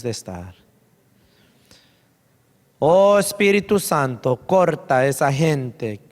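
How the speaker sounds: altar prayer. Real, not acted. Pastor leading the congregation in prayer at the altar, fervent altar prayer. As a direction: lead them in earnest prayer, with long pauses between pleas.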